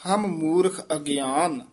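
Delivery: ਹਮ ਮੂਰਖ ਅਗਿਆਨ slowly, with a short halt after ਅਗਿਆਨ; ਅਗਿਆਨ ਤੇ ਠਮਕ; brief stop after ਅਗਿਆਨ. Shown as a demonstration. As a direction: hold a little catch after ਅਗਿਆਨ. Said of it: "ਇੱਥੇ ਠਮਕ ਹੈ".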